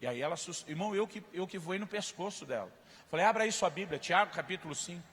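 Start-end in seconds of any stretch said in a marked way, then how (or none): 3.2-5.1 loud, slow scripture rebuke; scolding. Retold or imitated. Pastor rebuking the sister with Tiago, loud and slow. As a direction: hammer the verse at her.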